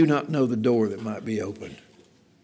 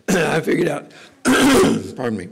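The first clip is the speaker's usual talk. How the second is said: arrogant; 3 semitones higher, 4 dB louder than usual. Acted. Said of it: "not an attitude of saying".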